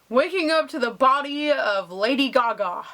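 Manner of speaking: breathy secret whisper aside; sharing a private fantasy with viewers, whispered. Pretend. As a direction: whisper it to yourself like a daydream. Whispered aside about a singer.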